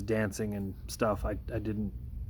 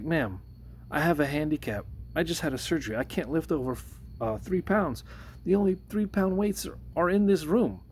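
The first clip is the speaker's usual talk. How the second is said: explaining yourself, getting more worked up each line; retold pleading protest; 6 semitones higher than usual. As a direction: pitch climbs higher and higher as the protest builds. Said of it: "And I was like".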